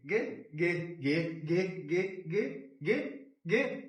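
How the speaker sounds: real thrill as the win comes in; rising excitement. Real, not acted. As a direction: build the anticipation until it lands. Multiplier arriving.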